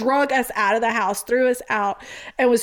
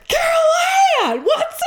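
slow, high, drawn-out call; hammed-up dude greeting his friend; mock stoner hello; cheery greeting; 4 dB louder, slower than usual. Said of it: "he goes".

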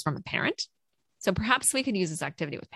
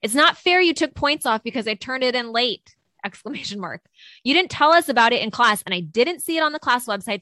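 all-caps email read; 4 semitones higher than usual. Acted. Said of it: "imagine it being in all caps".

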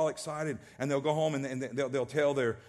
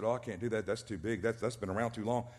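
mock a whining believer backing out; whiny refusal; 3 semitones lower than usual. Preacher mimicking a believer refusing God's promised land, mopey whine.

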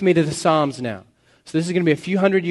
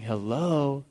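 sarcastic poet. Acted. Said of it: "the poet's kinda saying".

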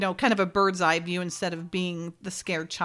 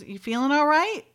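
higher-pitched tentative check-in; hesitant question; 6 semitones higher than usual. Retold or imitated. She checks on him after hypnosis, hesitant question. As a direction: ask it carefully, pitch lifted. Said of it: "she kinda hesitates".

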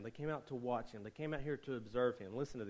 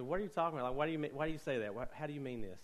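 puzzled wife; 3 semitones higher, faster than usual. Retold or imitated. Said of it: "she said".

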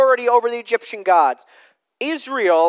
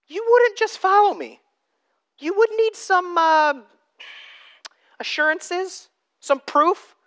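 rising emphasis; 11 semitones higher than usual. Real, not acted. Rhetorical pitch peak.

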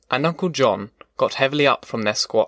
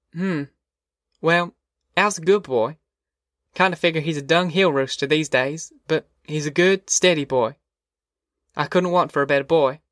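slightly raised voice for a loyal mother; lightly voiced country mother; 3 semitones higher than usual. Ma vouching for Al to Wainwright, mild motherly defence. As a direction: lightly play a mother standing up for her son.

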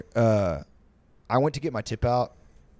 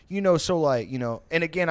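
doing his voice; 5 semitones higher than usual. Retold or imitated. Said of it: "I'm doing the voice".

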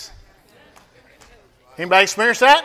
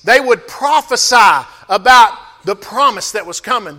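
preaching. Acted. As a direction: press the congregation with rising force. Preaching at full force.

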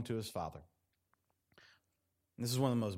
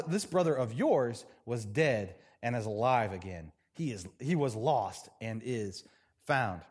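scripture reading; 4 semitones lower than usual. Acted. Reads the father's reply.

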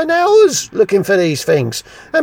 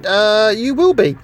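a mild imitation of a small squeaky voice; hint of a squeaky old master; squeaky little voice. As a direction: tease him with a lightly squeaky impression. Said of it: "in your squeaky little voice".

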